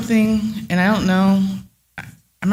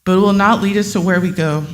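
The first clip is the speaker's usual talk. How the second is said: reading a prepared statement. Acted. Resident reading her statement to the water board, firm and earnest. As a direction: deliver it like a protest speech.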